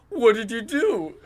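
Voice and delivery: high, loud mock-upset demand; upset friend. Friend questioning player about lost ammo, mock upset. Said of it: "he sounded so upset".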